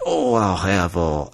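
slow, loosely imitated British accent; attempted British accent. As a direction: put on a half-hearted British accent. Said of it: "try to do a British accent".

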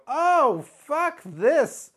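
panicked outburst. Retold or imitated. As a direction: cry out like you're caught in a Boston Crab. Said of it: "I go".

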